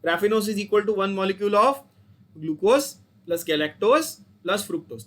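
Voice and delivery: very slow, word by word, for the class to repeat; slow recitation. Shown as a demonstration. Teacher leading students to repeat the formula, very slow chant. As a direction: spell it out slowly so students can chant along. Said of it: "फिर से बोलो मेरे साथ साथ".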